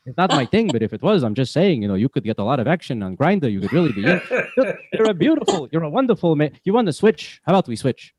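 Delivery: put-on old Jewish man accent, haggling; Yiddish-flavored accent, coaxing. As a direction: schmooze the taskmaster like an old Jewish grandpa. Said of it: "hearing my Jewish accent".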